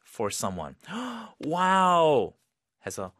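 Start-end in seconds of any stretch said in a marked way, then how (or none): 0.8-1.4 sharp high gasp; happy gasp; excited gasp. Shown as a demonstration. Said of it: "sound very up and exciting". 1.4-2.3 high, louder delighted wow; thrilled exclamation; excited wow. Shown as a demonstration. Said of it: "sound very up and exciting".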